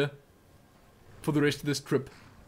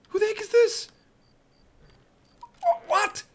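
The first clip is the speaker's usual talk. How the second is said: surprised. Real, not acted. Strange creature appears.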